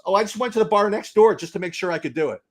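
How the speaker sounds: punchline said through a laugh; a hint of laughter on the Irish guy's reply. Irish guy delivers the punchline to the bartender, laughing.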